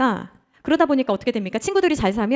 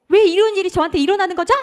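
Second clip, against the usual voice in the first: high-pitched pleading question; imitated anguished complaint, without real tears; upset prayer; 7 semitones higher, 3 dB louder than usual. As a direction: plead with God in distress. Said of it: "막 속상해가지고 막 울면서".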